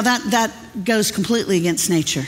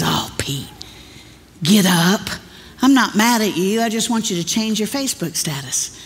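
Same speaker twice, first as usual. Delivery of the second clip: gentle Jesus. Retold or imitated. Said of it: "And Jesus says".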